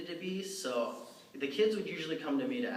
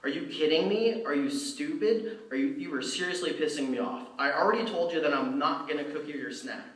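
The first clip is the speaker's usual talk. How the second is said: retold screaming; 2 semitones higher than usual. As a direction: tear into the kid, mock furious. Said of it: "And I just start screaming".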